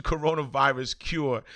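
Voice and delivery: real chuckle slipping into the read; stifled laugh on the words; laughing while reading. Real, not acted. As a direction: read it out, amused in disbelief. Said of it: "I'm laughing".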